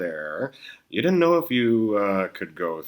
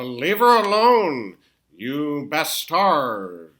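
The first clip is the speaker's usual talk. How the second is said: defiant; 5 semitones higher, slower than usual. Acted. Marty defends Lorraine.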